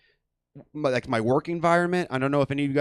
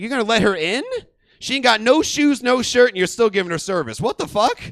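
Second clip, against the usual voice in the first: mock outrage; 5 semitones higher, 4 dB louder than usual. Outraged at manager.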